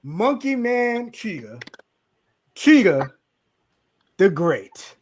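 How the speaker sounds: slow, drawn-out ring announcer build-up; announcer introduction. Pretend. Host introduces his friend by his nicknames, mock announcer. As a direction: stretch each nickname grandly.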